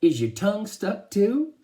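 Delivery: high, loud mock question; teasing. A narrator's reading. Dad teases his stuck son, high loud mockery.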